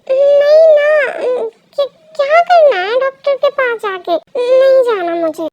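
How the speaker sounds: put-on childish whining. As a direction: whine like a child refusing to go. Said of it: "बच्चों की तरह behave मत करो". (बच्चों जैसी ज़िद में)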